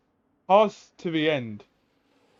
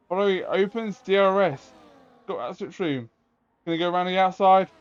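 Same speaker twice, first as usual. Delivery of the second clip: motorsport commentator; 4 semitones higher than usual. Acted. Live play-by-play of overtake.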